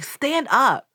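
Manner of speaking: loud, high, fed-up shout at a listener; mock-furious outburst with a laugh; exasperated yelling. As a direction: yell at her to get up off her knees. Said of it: "I'm like".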